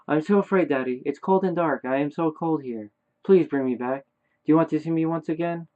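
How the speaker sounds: a hint of a scared, cold child; frightened dead son. Dead son begs Daddy to bring him back, lightly frightened plea.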